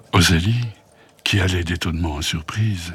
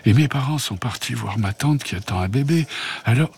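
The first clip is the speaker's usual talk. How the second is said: higher, eager little creature voice; a tiny fluff creature pleading for help, higher; worried little bouloche; 5 semitones higher than usual. Acted. Bouloche Blu asking Rosalie for help, higher worried voice. Blu explains its blocked hole.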